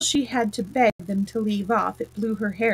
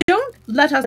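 higher, louder anxious plea; 6 semitones higher, 6 dB louder than usual. A narrator's reading. White Queen pleads with the others, anxiously. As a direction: cut in with a worried, raised voice. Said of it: "in an anxious tone".

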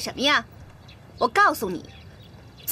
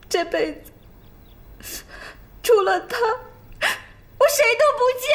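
higher, slow, tearful vow; crying vow; 5 semitones higher, much slower than usual. Acted. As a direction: force the vow out while sobbing. Vows through tears.

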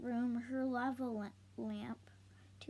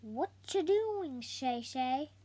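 little sister; 4 dB louder than usual. Acted.

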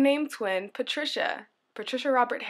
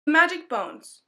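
title read aloud; 6 semitones higher, 6 dB louder, slower than usual. Shown as a demonstration. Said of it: "I hope you guys enjoy".

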